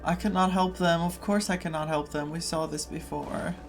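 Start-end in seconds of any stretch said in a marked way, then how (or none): none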